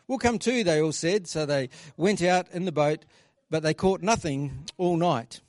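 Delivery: measured, storytelling Bible reading; scripture reading. Acted. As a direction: read the passage to the congregation. Reads John 21 aloud.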